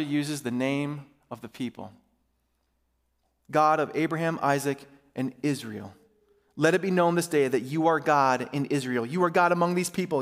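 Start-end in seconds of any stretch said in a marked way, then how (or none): 3.5-10.2 measured, earnest reading of a prayer; Scripture reading. A narrator's reading. Elijah praying before the people, read as earnest Scripture. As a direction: read the prayer out in deliberate phrases. Reads Scripture aloud to church.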